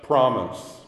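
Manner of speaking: slow, soft, calm lion voice; unhurried, settled lion; slow, soft reply from the majestic lion. Acted. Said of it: "the lion calmly said".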